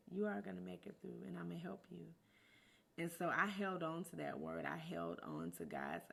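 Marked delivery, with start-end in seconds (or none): 0.1-2.1 softly voiced imitation of a whisper; retold soft whisper. God reassuring a woman going through divorce, retold in a soft near-whisper. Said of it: "he whispered to me".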